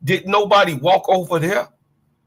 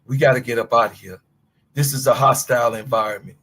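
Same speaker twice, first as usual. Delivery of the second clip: coach's warning; 6 semitones lower, faster than usual. Retold or imitated. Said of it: "shoulda gave you some advice and say".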